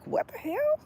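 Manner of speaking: a startled "what the hell" at a cat; startled high squeak. Retold or imitated. Wondering why the cat sits by her car, a shocked high squeak. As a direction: shoot way up in pitch, baffled. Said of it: "I used to be like".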